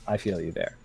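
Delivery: normal talking voice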